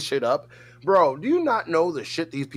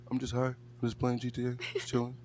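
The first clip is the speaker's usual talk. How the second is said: much softer, laid-back mumble; imitating laid-back friend; 4 semitones lower, 10 dB quieter, faster than usual. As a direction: mimic a mellow gamer barely bothering to speak. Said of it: "Why do you talk like that?".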